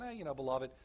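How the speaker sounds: mock casual "beloved", tossed off low; offhand beloved. Shown as a demonstration. Preacher mocks a throwaway "beloved", offhand. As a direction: shrug off "beloved" like it means nothing. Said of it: "He's like, "Beloved, hear me, beloved. Listen".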